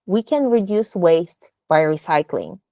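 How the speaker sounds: "recycling" picked out as the key word; stress on RECYCLING. Shown as a demonstration. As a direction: put the weight on "recycling". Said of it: "stress recycling".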